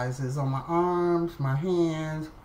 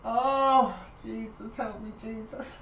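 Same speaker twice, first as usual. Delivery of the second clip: higher, much softer plea to Jesus; panicked prayer; 6 semitones higher, 3 dB quieter, slower than usual. Retold or imitated. Patient pleading with Jesus as the nurse touches her, high and hushed. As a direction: beg under your breath for help. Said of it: "And I'm like".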